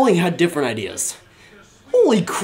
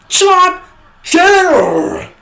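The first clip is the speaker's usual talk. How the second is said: slow, stretched-out, higher cheer; drawn-out cheer; 10 semitones higher, 3 dB louder, much slower than usual. Real, not acted. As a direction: drag out the cheer in triumph. Celebrating the goal.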